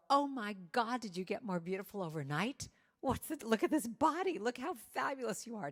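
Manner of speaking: high, bright-eyed gush at the mirror; gushing self-praise. Pretend. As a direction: hype yourself up like your biggest fan. Admiring herself in mirror.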